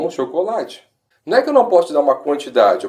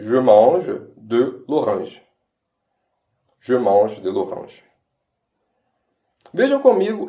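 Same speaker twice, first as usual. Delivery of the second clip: slow demo; 3 semitones lower, slower than usual. Shown as a demonstration.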